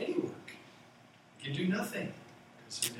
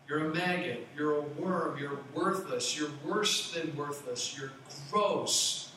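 mock contemptuous insult. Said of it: "Bildad then equates sinful fallen man".

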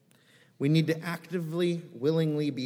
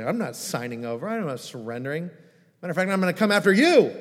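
defiant refusal; 3 semitones higher, 6 dB louder than usual. Retold or imitated. Defiant listener rejects gospel.

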